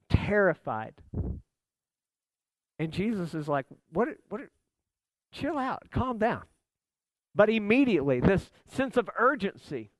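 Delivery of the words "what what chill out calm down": softly acted, casual calm-down; casual soothing. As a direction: play a laid-back Jesus hushing panicked friends. Jesus casually calming the disciples.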